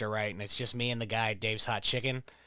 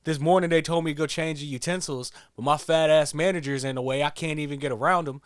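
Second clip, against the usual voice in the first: imitating the worker; 3 semitones higher, 4 dB louder than usual. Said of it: "the guy starts going".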